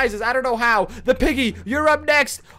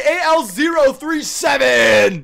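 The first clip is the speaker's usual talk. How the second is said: calling out the winner slowly and loudly; loud slow announcement; 4 dB louder, slower than usual. Real, not acted. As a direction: announce it like a champion.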